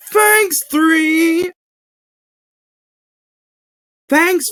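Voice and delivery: mild cartoon panic then relief; Noah voice lines. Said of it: "it's Noah".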